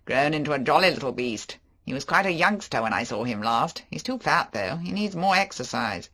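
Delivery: a flashy charmer making excuses; Favell. Acted. Favell voiced.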